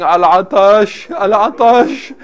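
stretched, pleading lament; imitated crying children. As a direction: slowly cry it out like thirsty children. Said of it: "he heard little children crying".

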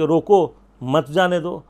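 "روکو" set apart, then "مت جانے دو" together; pause after روکو. Shown as a demonstration. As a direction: break right after روکو, so it means stop, don't let go. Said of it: "آدھے لوگ سمجھیں گے کہ".

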